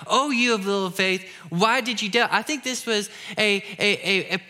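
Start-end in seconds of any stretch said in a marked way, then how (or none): 0.0-2.3 a touch of scolding, pushed a bit harder; mild rebuke. Shown as a demonstration. Pastor showing how people misread Jesus, mock rebuking. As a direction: read it as a light reprimand. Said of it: "this is the rebuke and how we often read".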